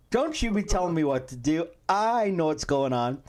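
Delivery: mock-bossy husband, slowing at the end; pulling an Aaron. Husband retelling how he told off his wife, mock-bossy. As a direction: lay down the law in jest. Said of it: "I was pulling an Aaron on her".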